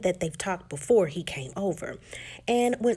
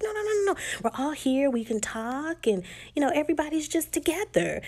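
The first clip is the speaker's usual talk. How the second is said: insistent reassurance; 8 semitones higher than usual. Retold or imitated. Retold friend insisting others stay.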